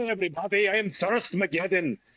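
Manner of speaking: put-on Irish accent. Reading a name from a diary, speaker imagines an Irish guy walking into a bar; Irish guy accent. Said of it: "sounds like an Irish guy walking into".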